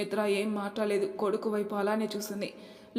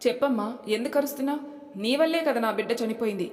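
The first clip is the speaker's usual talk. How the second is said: solemn, raised accusation; grave, stern; 2 semitones higher, 5 dB louder than usual. Acted. Son accuses his mother over the lost baby, grave. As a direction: lay the blame heavily. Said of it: "గంభీరంగా వచ్చింది కార్తీక్ గొంతు".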